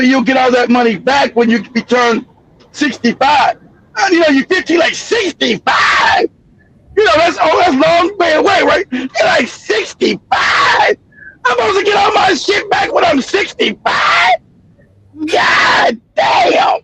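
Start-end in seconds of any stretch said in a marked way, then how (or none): 4.9-6.3 stretched-out, drawn-slow incredulous question; a teenager who can't believe the wait; mock disbelief. Teen hears retirement age. 9.5-16.8 higher, stretched incredulous cry building to a yelled curse; mock outraged disbelief. Teen outraged at retirement age.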